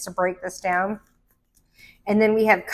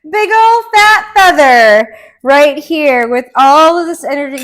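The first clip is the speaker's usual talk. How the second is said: excited; 5 semitones higher, 10 dB louder than usual. Real, not acted. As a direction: lean in and savor every word, thrilled. Excited about a tarot card.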